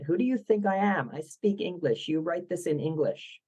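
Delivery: mock outrage, lightly acted without raising the voice; a touch of a furious star's protest; retold indignation. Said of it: "she was furious".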